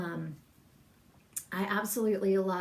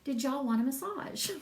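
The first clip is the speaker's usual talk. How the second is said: retold Southern-accent sales pitch; 6 semitones higher than usual. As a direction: offer it in a folksy Southern accent. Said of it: "In my best Southern accent".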